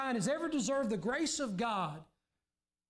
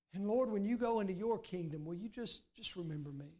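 softer and lower, a humbled plea; quiet pleading; 3 semitones lower, 3 dB quieter than usual. Acted. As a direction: beg to be remembered, fading away. Dying thief begs Jesus, quietly.

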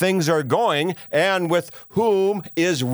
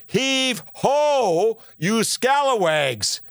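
high, slow pirate hail; rally the crew like a captain; pirate call; 6 semitones higher, much slower than usual. Acted.

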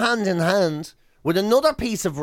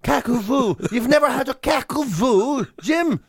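mock outrage; 5 semitones higher than usual.

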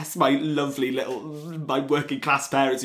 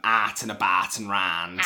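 Newark accent, "at and about and round" with flat a vowels, slower; Nottinghamshire accent; 2 semitones lower, slower than usual. Shown as a demonstration. Showing the podcast host the Newark accent. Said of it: "So where I'm from".

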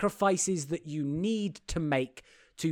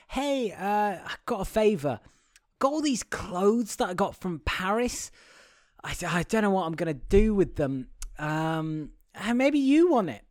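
tentative offer; 4 semitones higher than usual. Retold or imitated. Acting out her phone call offering clothes.

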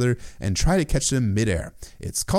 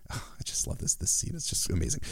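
delighted whisper; 3 semitones higher, 9 dB quieter than usual. Real, not acted. Host gushing about the scene.

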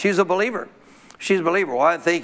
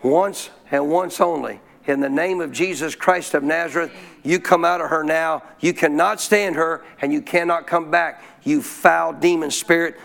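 calm authority. Retold or imitated. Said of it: "I said".

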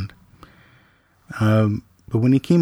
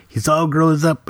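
Vince Vaughn line; 5 semitones higher than usual. Retold or imitated. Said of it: "feel like Vince Vaughn in Swingers".

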